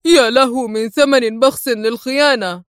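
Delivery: understated stern anger; a touch of cold fury. Acted. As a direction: condemn the cheap price, mildly stern. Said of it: "في غضب صارم".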